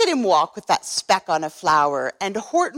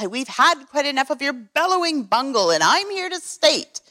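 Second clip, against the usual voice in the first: higher, snappish scolding kangaroo; sour kangaroo; 4 semitones higher than usual. Acted. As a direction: scold him sourly from up high. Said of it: "snapped the sour kangaroo".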